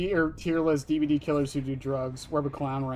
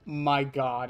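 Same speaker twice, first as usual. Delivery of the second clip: loud, drawn-out oh my god; loud exclamation; 8 dB louder, much slower than usual. Real, not acted. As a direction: blurt it out, stretched slow.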